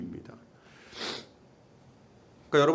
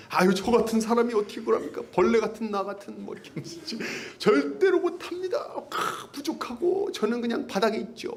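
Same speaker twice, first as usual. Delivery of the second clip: higher, whiny self-abasement; falsely humble person; 6 semitones higher than usual. Retold or imitated. Mocking an overly self-lowering churchgoer, hammed-up whine. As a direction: grovel theatrically. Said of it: "자기를 무작정 낮추는 사람".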